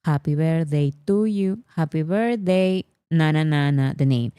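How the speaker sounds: lightly sung happy birthday in thick Spanish-accented English; strong Spanish accent. Shown as a demonstration. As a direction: hum through it in bad, heavily accented English. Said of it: "but with very strong accent".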